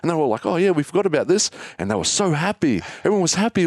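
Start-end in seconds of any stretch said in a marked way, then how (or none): 0.5-1.5 put-on high, delighted kid voices; excited kids. Friends find money in the buried purse, high delighted. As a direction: pitch it up like thrilled kids.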